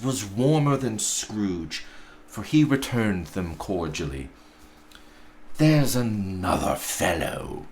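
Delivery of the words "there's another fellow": muttered. Acted. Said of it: "muttered Scrooge".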